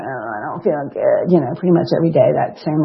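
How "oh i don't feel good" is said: imitating a moan. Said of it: "I was moaning like".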